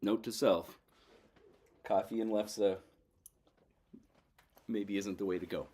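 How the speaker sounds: talking through a mouthful; mouth full. Real, not acted. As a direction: speak around a bite of food. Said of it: "I'm gonna talk with my mouth full".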